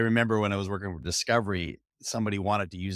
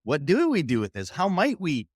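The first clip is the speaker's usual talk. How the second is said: excited; 5 semitones higher than usual. Retold or imitated. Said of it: "when they get excited about".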